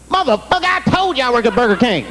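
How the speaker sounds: high-pitched outraged protest; indignant suspect. Acted. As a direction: play the insulted suspect barking back. Suspect snaps at prosecutor.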